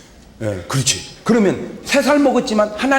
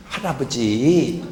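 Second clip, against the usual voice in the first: little granddaughter; 4 semitones lower, slower than usual. Acted. Little granddaughter gently lectures grandfather.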